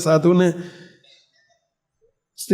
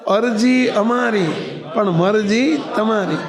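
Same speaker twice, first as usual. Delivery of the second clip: slow, every word set apart; slow emphatic maxim; 2 semitones higher, slower than usual. Shown as a demonstration. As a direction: spell out the lesson for the listeners. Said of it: "બોલો જોઈએ બધાએ". (ધીમે, ભાર દઈને બોલાતું સૂત્ર)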